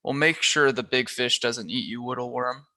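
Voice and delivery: put-on lisping baby talk, teasing; annoying baby voice. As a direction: coo it like mocking a toddler. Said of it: "in his annoying baby voice".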